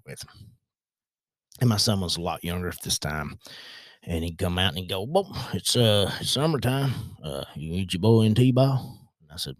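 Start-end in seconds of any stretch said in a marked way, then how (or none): 5.0-9.0 put-on country accent impersonation. Coworker asks about the son's T-ball, country accent impersonation. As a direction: imitate a country guy up north. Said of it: "I do a really good impersonation".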